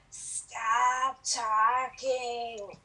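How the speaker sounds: a hint of a smoker's old woman, very slow; lightly voiced old woman, slow and eerie; raspy old woman. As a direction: drag it out like a ghostly old smoker. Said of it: "older woman who sounded like she had smoked too many cigarettes".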